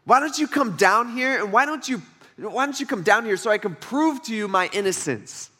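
Job pleading with God. Retold or imitated. Job challenging God to come down, mock plea. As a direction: act out Job begging God to come down, half-hammed. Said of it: "he's like".

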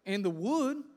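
put-on high, loud young voice asking urgently; a worried son asking his father where the lamb is; anxious boy Isaac.

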